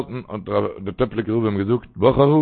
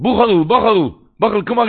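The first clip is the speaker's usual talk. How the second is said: higher, louder call from a window; 9 semitones higher, 6 dB louder than usual. Retold or imitated. Rebbe calling from the window to Bucharu, a raised call. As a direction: call the name out across the street. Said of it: "hat Teplike Ruf immer aufgegriffen".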